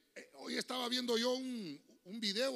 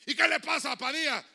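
teacher asking; 5 semitones higher, 9 dB louder than usual. Retold or imitated. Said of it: "el profesor decía".

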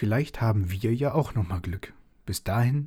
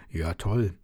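a touch of a grumbly father; lightly voiced disgruntled dad; mild grumpy agreement; 3 semitones lower than usual. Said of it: "seine Stimme klang brummig".

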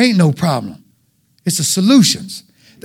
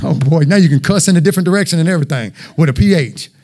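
mock sarcasm; 4 semitones lower than usual. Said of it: "I'm gonna be like".

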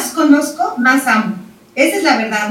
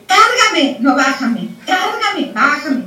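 imitating a fickle toddler; 2 semitones higher, much slower than usual. Toddler demanding to be held then put down. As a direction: swing between begging and refusing, lightly mocked.

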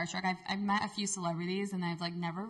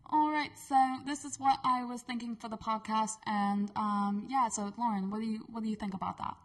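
slightly raised, practised British accent; English accent; 2 semitones higher than usual. Shown as a demonstration. Showing her co-host a practised podcast line, English accent. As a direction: pretend to be British, chatting like a host. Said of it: "let me do my English accent".

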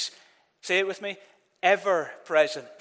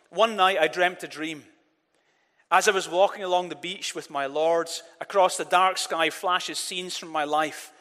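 poem reading. Acted. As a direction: read it like a treasured poem to the congregation. Reads the Footprints poem aloud.

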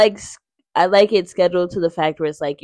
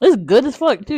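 chewing while talking; mouth full; 5 semitones higher, 6 dB louder than usual. Real, not acted. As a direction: say it with food in mouth. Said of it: "I'm eating a banana".

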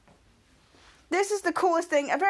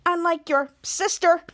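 mad. Retold or imitated. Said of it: "And Ray's so mad".

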